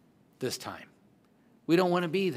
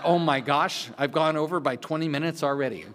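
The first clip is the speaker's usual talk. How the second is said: laughing. Real, not acted. Panicked about running over time.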